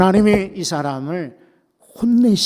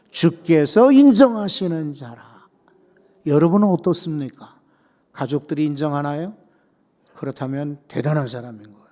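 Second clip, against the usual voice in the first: ordinary talk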